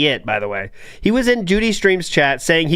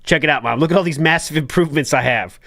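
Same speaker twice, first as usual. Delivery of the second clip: morphing voice; 3 semitones lower than usual. Retold or imitated. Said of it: "Listen to this voice changer".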